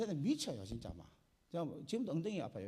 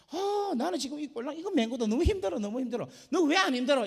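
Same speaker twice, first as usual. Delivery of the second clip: loud, higher whining camel; complaining camel; 10 semitones higher, 11 dB louder than usual. Acted. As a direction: whine loudly about the heavy load.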